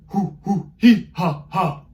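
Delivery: high, loud hoo hoo hee ha ha; bouncy owl hoots, loud; owl hoots with changing vowels. Shown as a demonstration. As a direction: punch each syllable from the diaphragm. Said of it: "while I show you what to do".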